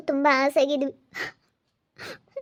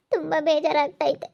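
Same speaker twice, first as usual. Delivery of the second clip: crying. Acted. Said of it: "ಇಲ್ಲಿ ನೋಡು, ಸಮಾಧಾನ ಮಾಡ್ಕೊ".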